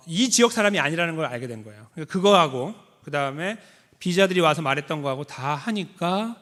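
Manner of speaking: normal talking voice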